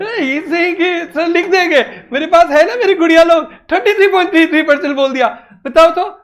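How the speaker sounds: excited teacher praise; playful praise. Real, not acted. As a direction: tease the class with pride.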